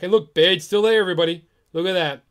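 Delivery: exasperated gamer ranting; frustrated. Real, not acted. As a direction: vent at the useless bot. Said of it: "I'm frustrated".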